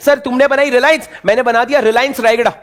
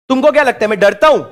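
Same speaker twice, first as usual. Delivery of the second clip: louder, challenging mock-brave question; mock bravado; 3 semitones higher, 3 dB louder, faster than usual. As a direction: put on fearless bluster. Mock bravado before admitting fear.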